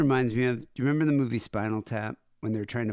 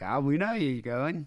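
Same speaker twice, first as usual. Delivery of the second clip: botched mock Cockney chav voice; Cockney accent. Podcaster imagining chavs watching him go by, bad Cockney. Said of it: "Why would they be Cockney?".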